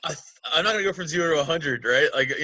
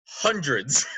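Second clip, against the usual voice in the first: Shake impression; 4 semitones lower than usual. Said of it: "a line he says to Frylock".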